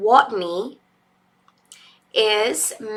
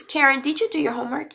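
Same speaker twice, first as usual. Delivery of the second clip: parent asking; 4 semitones higher, much faster than usual. Acted. Parent questions child, acted dialogue.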